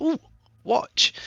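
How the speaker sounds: put-on toddler squeal, very high and excited. Voicing a creature who sees a watch: excited toddler squeal. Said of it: "Ark kind of squeals like a, an excited little toddler".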